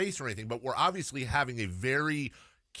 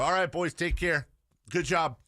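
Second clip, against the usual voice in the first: cheery farewell; 4 semitones higher, 3 dB louder than usual. Retold or imitated. Dad says bye to boys.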